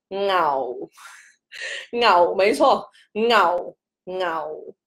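牛 said low and dropping, Cantonese fourth tone; 牛 said low and falling. Shown as a demonstration. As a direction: let 牛 fall to the bottom. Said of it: "就是很低音的".

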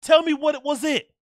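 high-pitched, incredulous demand; exasperated rant. Real, not acted. Streamer demanding to know what that fight was, exasperated.

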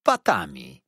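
low, loud, weighty pronouncement; waiter's ominous one-word reply; dreadful answer. A narrator's reading. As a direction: drop the grim word heavily. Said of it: "brzmiała straszliwa odpowiedź".

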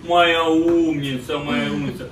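slow tender praise for a good dog; praising a dog. Real, not acted.

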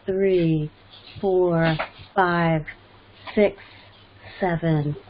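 guided breathing. Acted. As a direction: lead them calmly through each breath. Leads a breathing exercise.

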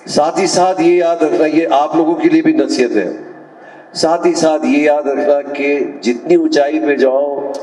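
declaimed verse with measured pauses, each line falling at the close; poetic recitation. Acted. Advising the audience on living at the heights, poetic recitation. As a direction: recite it to an audience, pitched above casual talk.

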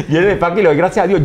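fast, laughing through the words. Real, not acted. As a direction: rattle it off while still laughing. Laughs at his own joke.

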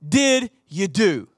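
slow, low stern father asking "What did you do?"; lightly voiced stern dad. Dad at the door to teen son, stern. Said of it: "He would ask me".

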